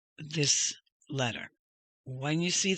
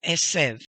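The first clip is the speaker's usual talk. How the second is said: ESEV said firmly as one word; quick, loud Esev; emphasis shown; 6 dB louder than usual. Shown as a demonstration. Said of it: "this is the emphasis right here".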